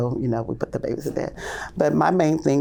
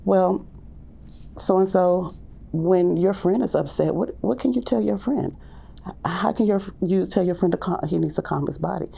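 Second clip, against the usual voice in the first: higher, sing-song questioning voice; gentle teacher prompt; 6 semitones higher than usual. Retold or imitated. Teacher asking a toddler how to calm his friend, higher and coaxing. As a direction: coax the child to answer. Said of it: "I'll say".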